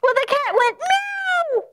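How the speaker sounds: high, loud excited telling; excited shout. A narrator's reading. Storyteller shouting excitedly as the cat pounces. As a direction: burst out with the pounce.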